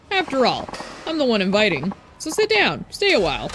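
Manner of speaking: lightly voiced old-timer, jolly and pushy; a hint of a tipsy old-timer; folksy old drunk. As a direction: play the tipsy old man inviting a stranger.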